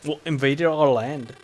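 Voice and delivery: slow, put-on Scottish-British accent; attempted British accent. Islander explaining the fight over land, attempted British accent. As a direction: have a rough go at a British accent. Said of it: "I need to figure out the British accent".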